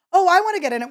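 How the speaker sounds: a pushy fan squeezing in; high eager plea. Retold or imitated. To the chef's selfie, high eager plea. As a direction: push into the photo, high and bright-eyed.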